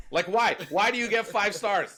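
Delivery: exasperated. Real, not acted. Exasperated at glowing reviews.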